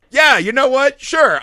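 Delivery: high, loud, laughing give-in; laughing surrender. Retold or imitated. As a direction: cave in through laughter, delighted. Giving in, laughing at bartender's line.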